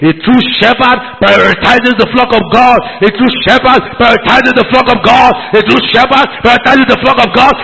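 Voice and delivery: the same line hammered over and over, gradually climbing; repeated refrain. Real, not acted. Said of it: "I say it again".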